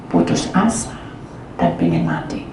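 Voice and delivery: almost whispered, heavy with despair; hushed whisper. Retold or imitated. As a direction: voice sinks to a whisper.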